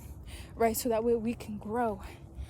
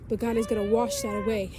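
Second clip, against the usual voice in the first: tearful; 5 dB louder than usual. Real, not acted. To a viewer facing death, real tearful preaching. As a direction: voice catching in tears. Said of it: "getting emotional".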